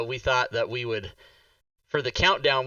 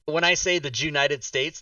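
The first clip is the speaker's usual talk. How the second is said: Hispanic accent. Shown as a demonstration. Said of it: "saying it in a Hispanic accent".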